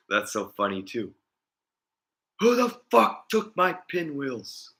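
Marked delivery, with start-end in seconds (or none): 2.4-4.7 high, slow cartoonish old-man rage; mock angry grandpa. Grandpa demanding who took his pinwheels, high slow mock rage. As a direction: ham up a furious grandpa, much higher.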